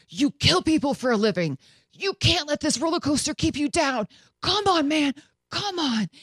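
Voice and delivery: lightly voiced fighter psyching himself up; a hint of a coach urging himself on; sick fighter coaching himself over a garbage can; self pep talk.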